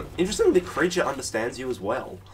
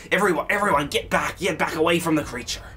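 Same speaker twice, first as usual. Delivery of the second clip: shouted warning; 5 semitones higher, 4 dB louder than usual. Acted. Theron warns party back.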